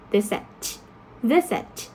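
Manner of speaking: visit stressed on VIS; stress on first syllable. Shown as a demonstration. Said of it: "you have the first".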